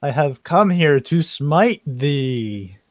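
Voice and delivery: slow grand hero voice; lightly hammed-up heroic proclamation; mock heroic. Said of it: "being all heroic".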